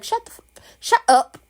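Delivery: hammed-up Ned telling Nina to shut up; mock angry snap. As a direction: bark it at someone who won't stop talking.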